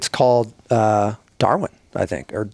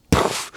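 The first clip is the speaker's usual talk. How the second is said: imitated gunshot.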